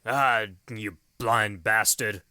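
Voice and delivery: slow, drawn-out grumble; quoting Morton. Retold or imitated. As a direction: mutter it at the dog, dismissively.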